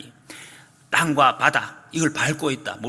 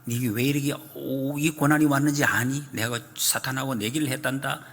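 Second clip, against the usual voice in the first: God speaking gently; 3 semitones lower, 4 dB quieter than usual. Retold or imitated. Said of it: "어떻게 했니?".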